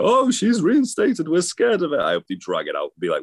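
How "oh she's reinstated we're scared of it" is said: much higher, slow, hammed-up fright; mock scared. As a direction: play the scared roster over the top. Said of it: "next week go".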